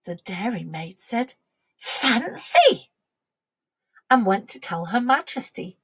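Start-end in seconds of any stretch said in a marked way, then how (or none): 1.8-2.9 higher-pitched "well, I never" exclamation; mild surprise. A narrator's reading. Dairymaid reacts to the cow's advice, surprised. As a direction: dairymaid voiced with a surprised lift.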